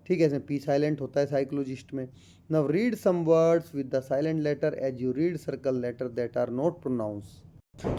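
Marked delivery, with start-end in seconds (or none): 2.5-8.0 slow, deliberate reading of the English passage; textbook read-aloud. Acted. Teacher reading the textbook to students, slow and careful. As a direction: read it out word by word for the class.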